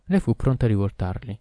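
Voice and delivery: ordinary delivery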